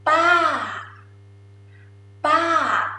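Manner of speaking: "pa" starting high, then falling away; tired falling tone. Shown as a demonstration. Teacher showing Thai falling tone, tired "pa". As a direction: let "pa" slump down from high, as if worn out. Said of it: "falling is pronounced like you're tired".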